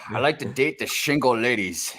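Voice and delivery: Scottish-accented movie-star impression; lightly hammed-up Scottish actor voice; Sean Connery. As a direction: suave Scot with slushy S sounds. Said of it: "now do Sean Connery in Highlander".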